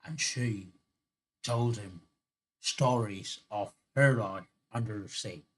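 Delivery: amateur Irish storytelling lilt; badly faked Irish brogue; bad Irish accent. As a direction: tell the tale in a shaky-attempt Irish accent. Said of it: "I'm doing a really bad Irish accent".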